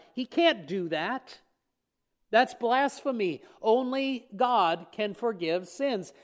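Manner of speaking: slow, deliberate mock outrage; lightly voiced scribes scoffing at blasphemy; indignant teachers. Teachers of the law thinking it over, mildly indignant.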